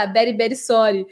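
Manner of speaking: VERY said as "bery"; playful "bery, bery sorry" with B in VERY; Indian B for V. Retold or imitated. Teacher recalls teasing nickname for friend, B for V. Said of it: "eles falam o B".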